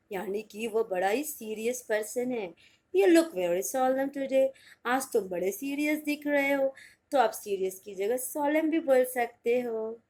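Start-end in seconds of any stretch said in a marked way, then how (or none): 2.9-4.5 slow, slightly lifted example; slow example read. Shown as a demonstration. Teacher to students, slow example sentence. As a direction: say it slowly like a model line. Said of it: "example sentence read slowly".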